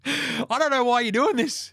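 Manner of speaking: high-pitched mock bewilderment; mock protesting. Host mimics coach complaining, high mock protest.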